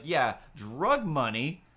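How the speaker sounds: retold yell, slow and punched; mild mock yell. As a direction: imitate a parting shot yelled back, drawn out. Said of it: "turns around and yells".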